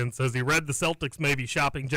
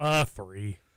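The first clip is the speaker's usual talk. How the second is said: disappointed, let-down voice, lower; 6 semitones lower than usual. Giving a number when asked about a birthday, sounding disappointed. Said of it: "He sounds so disappointed".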